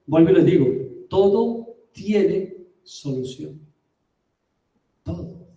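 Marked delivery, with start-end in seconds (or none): 1.1-3.6 slow, weighty, word by word; slow emphasis. Acted. Preacher repeats key message slowly. 5.0-5.5 hushed echo. Acted. Near-silent echo of key word.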